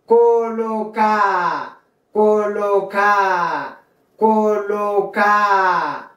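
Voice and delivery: colocar said "co-lo-CAA", a long final A, no R; dropped D. Shown as a demonstration. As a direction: draw colocar out slowly to a falling open A. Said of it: "notre deuxième lettre".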